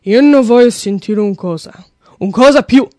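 loud mock-furious Italian dad; imitating a father's angry outburst in Italian; freaking-out Italian father. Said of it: "he started freaking out".

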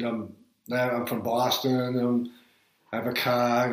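put-on old Boston accent, R's dropped; thick Boston vowels, no R in car. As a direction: say it like a Bostonian introducing himself. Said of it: "change my accent".

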